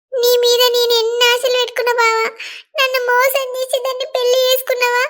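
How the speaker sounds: a touch of tears in a hurt accusation; tearful reproach. Acted. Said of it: "ఏడవకు".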